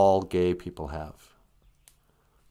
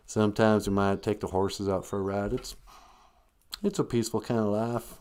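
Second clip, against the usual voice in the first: put-on southern redneck accent. Montanan describing the peaceful life, redneck accent. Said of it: "you can have a southern redneck accent".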